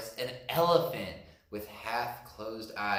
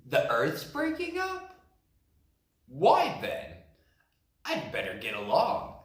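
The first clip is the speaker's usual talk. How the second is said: confused bear. Acted.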